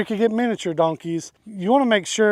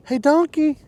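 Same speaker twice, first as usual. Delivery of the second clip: calling the donkey; 8 semitones higher than usual. Real, not acted.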